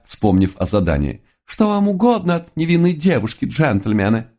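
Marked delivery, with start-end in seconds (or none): 1.4-4.3 high falsetto maiden voice; falsetto girl voice. Acted. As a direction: play the innocent girl in falsetto. Disguised as girl, same falsetto.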